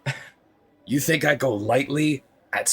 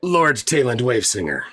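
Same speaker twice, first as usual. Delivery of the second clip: sarcastic; 3 semitones higher, 4 dB louder than usual. Acted. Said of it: "Dinar will sarcastically".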